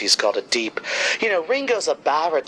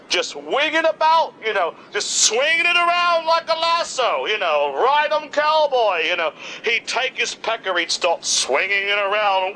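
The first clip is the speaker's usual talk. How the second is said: excited; 4 semitones higher than usual. Acted. Acting out John's swinging antics.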